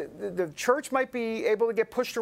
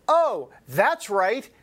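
mock realization; 3 dB louder, much slower than usual.

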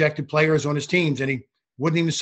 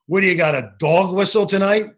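mildly imitated yell, louder; retold heckling yell; 4 semitones higher, 4 dB louder than usual. Coach heckling the referee after a missed call, retold yell. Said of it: "he yells at me".

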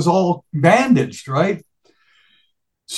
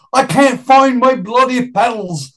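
imitating Brian; 6 semitones higher than usual. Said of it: "And he goes".

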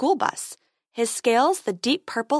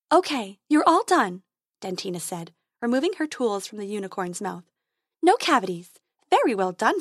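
tooth fairy voice. Acted.

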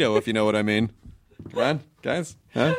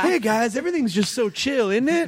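mock blissed out; 7 semitones higher than usual. Mocking the new calm self.

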